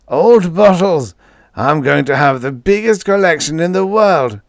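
put-on high, loud, manic old codger; crazed old man laughing. A narrator's reading. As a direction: crow it with mad glee. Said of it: "and he laughed".

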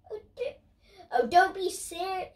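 laughing through the words; cracking up while reading; breaking into laughter. Real, not acted. Reader laughs mid-line.

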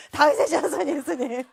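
high, loud, drawn-out re-enacted cry; shouting out. Woman imitating Bartimaeus in her hotel room, shouting to Jesus. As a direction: yell it slowly with all your force. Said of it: "막 소리를 질렀는데".

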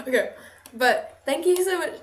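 thanks that come out sounding sarcastic; accidentally sarcastic. Real, not acted. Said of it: "This sounds so sarcastic".

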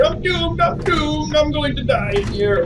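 high, whimpering doomed lament; fake-sob it like a lost cause; trapped gamer whimpering at the viewers; mock crying panic. Real, not acted.

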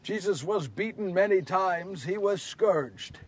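hushed, grieving recollection; quiet sorrow. Acted. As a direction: recount it softly and heavily. Sorrowful memory of worst days.

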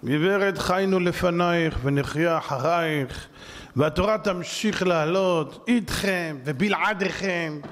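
slow, solemn words to Mrs Zandberg; measured and unbowed, each phrase weighted; slow defiant address. Acted. Addressing Mrs Zandberg directly, slow and solemn. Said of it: "עד שבאה זנדברג והצילה את הדור".

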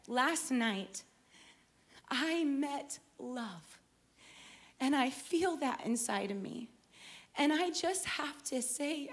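gentle retold speech full of gratitude; heartfelt testimony. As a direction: speak softly with wonder and halting pauses. Retold heartfelt talent show testimony.

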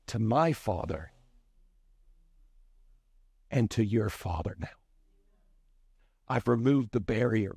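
lightly voiced Jesus, low and measured; gentle Jesus. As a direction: explain tenderly, with long pauses. Acts Jesus gently explaining to Mary.

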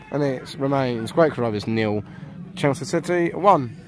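casual match report voice; relaxed sports commentary. Acted. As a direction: read the score like radio. Mock radio score update.

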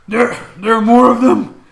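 loud Cockney British orc yell; Cockney orc shout. Acted. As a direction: bellow it in a Cockney British accent. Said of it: "Cockney British accent".

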